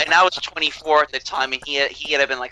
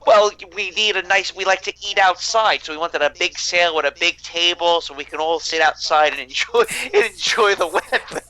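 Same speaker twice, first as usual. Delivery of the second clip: higher-pitched, lightly voiced carefree Italians; Italian naval architects; 4 semitones higher than usual. Italian designers explaining to Germans why they eat outside, lightly mock-innocent. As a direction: lightly play easygoing Italians, breaking into a laugh. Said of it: "Italian naval architecture's response to the Germans".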